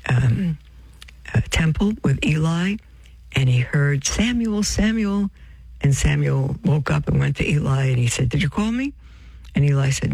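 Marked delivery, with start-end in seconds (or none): 4.1-5.3 high, drawn-out call of a name. Retold or imitated. A voice calls the sleeping boy Samuel, high calling voice. 8.3-8.9 put-on questioning boy. Boy Samuel asks Eli, retold.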